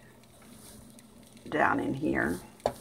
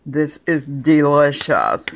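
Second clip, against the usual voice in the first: slow, chewing while talking; mouth full; 4 dB louder than usual. Real, not acted. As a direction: savor it through a mouthful. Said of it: "talking with my mouth full".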